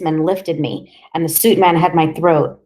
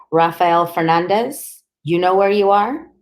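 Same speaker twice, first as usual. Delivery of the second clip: stern policeman; 2 semitones higher, 4 dB louder than usual. Acted. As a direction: question him like a cop. Policeman interrogating the boy.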